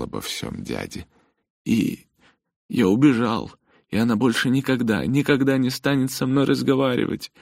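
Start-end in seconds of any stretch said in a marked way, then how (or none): 1.6-7.3 high, loud tearful outburst; crying. Acted. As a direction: sob it out. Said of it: "снова разрыдался".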